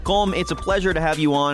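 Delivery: blocked nose from allergies; nasal, congested voice; stuffy nose. Real, not acted. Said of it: "I sound a little stuffy".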